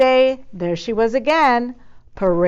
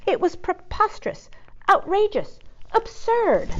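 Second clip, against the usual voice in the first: indignant outrage; 11 semitones higher than usual. A narrator's reading. Cat's outraged disbelief.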